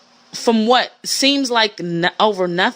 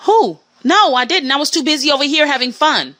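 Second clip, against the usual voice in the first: sassy retort; 4 semitones higher than usual. Retold or imitated. Answering the catty girl.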